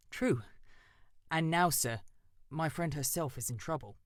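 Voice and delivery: a nervous bird calling up politely; eager crow Jeremy. Acted.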